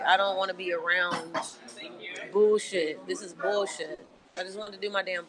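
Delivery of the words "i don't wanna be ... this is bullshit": fed up. Real, not acted. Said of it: "I'm, I'm angry".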